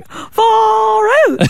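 put-on a quick Kiwi accent. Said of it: "I love my Kiwi accent".

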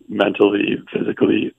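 hoarse, fading voice running out; losing voice. Real, not acted. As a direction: voice giving out, cracking to breathless. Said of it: "I'm losing my voice a little bit".

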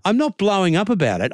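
worked up, voice rising; heated. Real, not acted. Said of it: "Listen to your tone, mate. You're getting louder and louder".

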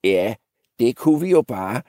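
put-on mildly cheeky young goat. Young goat answering the old one, mildly cheeky. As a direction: answer back with a touch of sauce. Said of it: "svarede en af de tre næsvist".

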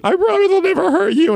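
a frantic dad nearly in tears; panicked crying apology. Retold or imitated. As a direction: beg the baby's forgiveness through tears. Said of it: "I'm, like, crying, practically".

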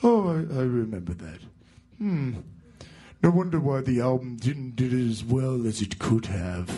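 mild mumbling rock-singer grumble; impression of a rock singer. The speaker dismisses the album in a light rock-singer voice. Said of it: "And Oz goes".

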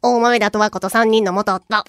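slow, low drama narrator voice; Itō Sairi narration impression. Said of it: "伊藤沙莉さんのナレーションの真似".

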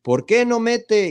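high, slow, whiny pundit complaint; mocking pundit voice. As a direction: whine it like a know-it-all commentator. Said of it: "los comentarios es de". (voz burlona de comentarista)

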